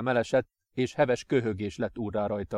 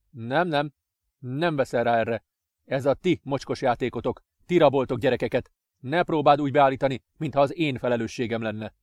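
louder, fast accusation; angry father; 4 dB louder than usual. Acted. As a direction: refuse him with disgust.

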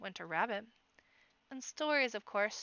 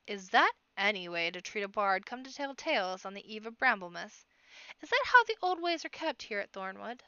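rising indignation, louder; indignant scolding; 5 dB louder than usual. Acted. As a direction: scold him for his rudeness. Bard scolds the guard.

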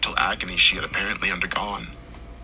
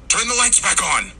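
calling out; 11 semitones higher than usual. A narrator's reading. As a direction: call out for help. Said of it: "Henry called".

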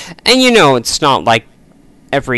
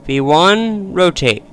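pilot takeoff callouts; 4 semitones higher, 5 dB quieter than usual. Acted. Calling speeds during takeoff roll.

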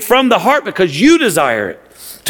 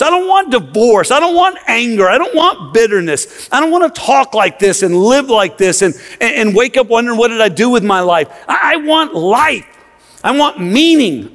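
pleading longing; 3 semitones higher than usual. Pretend. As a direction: cry out for a new life. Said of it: "that makes us say".

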